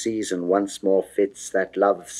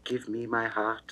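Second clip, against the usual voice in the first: softer, hushed pleading; soft plea; 9 dB quieter than usual. Acted. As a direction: beg gently, almost under the breath. Venus pleads for her heart.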